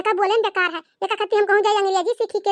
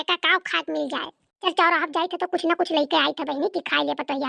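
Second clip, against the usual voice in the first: lowered village gossip. Acted. Mother-in-law complaining to her neighbour, a lightly lowered voice. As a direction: grumble to the neighbour about the bride.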